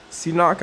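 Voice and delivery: "Seanock" opened with a plain s, like "see-nock"; tentative pronunciation. Shown as a demonstration. Card reviewer guessing at a Pokemon's name, tentative pronunciation. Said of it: "I think is how you say it".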